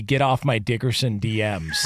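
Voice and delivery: real laughter through the name; laughing. Real, not acted. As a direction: say it while cracking up. Cohost cracks up at name.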